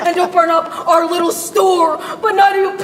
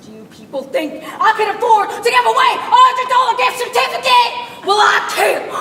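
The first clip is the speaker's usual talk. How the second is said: angry rant; 4 semitones higher than usual. Acted. Shop owner ranting at crowd.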